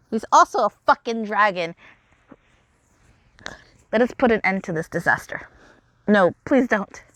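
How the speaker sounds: a hint of dragon prince and villain sparring; lightly voiced game dialogue. Malleus confronts Rolo at the bell, lightly acted drama. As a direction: read the characters with mild drama.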